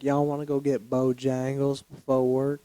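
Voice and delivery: put-on Southern girl accent. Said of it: "with that accent".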